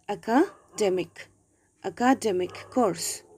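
"Academic" with the weight on DEM; stress on DEM. Shown as a demonstration. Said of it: "We have to give a stress".

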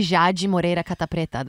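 Jadi Moreira Catapreta said the Portuguese way; real Portuguese name. Shown as a demonstration. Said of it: "my real name".

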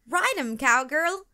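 high, loud ride em cowgirl; yelled cheer. A narrator's reading. Pedro cheering Katie on, loud high yell. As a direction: cheer her on from the side. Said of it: "Pedro yelled".

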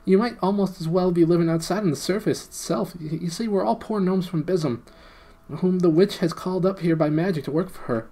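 high, eager little gnome pleading. Acted. Gnome Golg explaining to the prince and friends, high and eager. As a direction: squeak it out like a small underground gnome. Gnome Golg's long speech.

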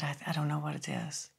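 softly retold admission; quiet, mock-defeated pupil; giving up. Retelling her giving up.

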